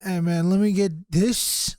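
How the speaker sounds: put-on slow first stab at his accent; a rapper. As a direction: loosely imitate the rapper's accent, drawn out. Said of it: "I can't do his fucking accent".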